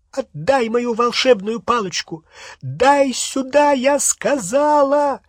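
high, loud, last words slowed; shrill furious order; angry demand. Acted. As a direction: demand it back in a high fury. Hermione demanding her wand.

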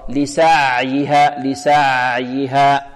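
لسعيها very slow, the ayn flowing partly, neither choked nor slack; medium ayn. Shown as a demonstration. Quran teacher shows the correct way, medium ayn. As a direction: balance the ع in لسعيها between stop and flow. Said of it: "الصحيح أنها وسط".

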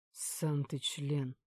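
slow, rude retort; snapping back. A narrator's reading. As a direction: bite back at the captor. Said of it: "огрызнулся Пётр". (огрызаясь, медленно)

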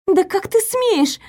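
high, slow outraged cry; flaring up. Acted. Girl pinned to the wall, flaring up in high outrage. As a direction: flare up in outrage. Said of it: "вспыхнула я".

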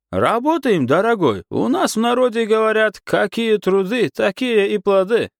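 a cheerful stall keeper greeting a regular; kiosk owner Guram. A narrator's reading. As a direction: Guram answering Pasha, a lightly voiced warm baker.

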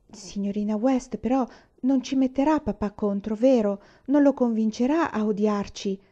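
mildly pleading question; a child afraid of being hated; imploring. Acted. Una pleads with Miss West, imploring. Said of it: "le chiese con tono implorante".

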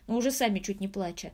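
ordinary delivery, nothing marked

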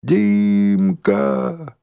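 high desperate shout; long frightened call. A narrator's reading. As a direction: scream for help. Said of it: "закричала я".

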